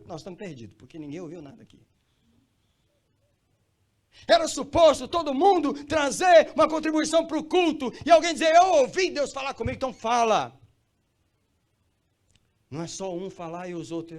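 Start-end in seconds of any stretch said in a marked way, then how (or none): 4.3-10.6 very loud, high sustained shout; full-force preaching shout. Real, not acted. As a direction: cry it out to the whole congregation. Preacher shouts exhortation at congregation. (pregação aos gritos, a plenos pulmões)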